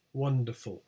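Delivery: WONDERFUL stressed on WON; stress on first syllable. Shown as a demonstration. Teacher showing suffix leaves stress alone, stress on WON. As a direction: say wonderful with the beat kept on WON. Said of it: "The stress doesn't change".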